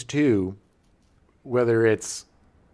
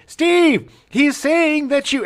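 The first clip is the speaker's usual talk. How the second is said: impression of Martin Short; 14 semitones higher, 7 dB louder, much slower than usual. Acting out Short ribbing Steve.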